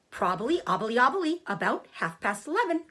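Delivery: high whispered goose voice that repeats itself; a fussy goose tripping over her words; stuttering goose. Acted.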